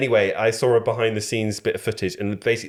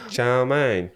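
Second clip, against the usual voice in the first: put-on London accent; 3 semitones higher than usual. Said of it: "It sounded London".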